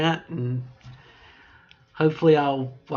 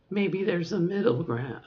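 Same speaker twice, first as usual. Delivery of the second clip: raised voice; 4 semitones higher than usual. Shown as a demonstration. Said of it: "talk like this".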